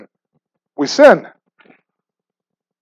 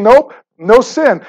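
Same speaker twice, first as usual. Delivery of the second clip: mock denial; 4 semitones higher, slower than usual. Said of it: "I'm saying".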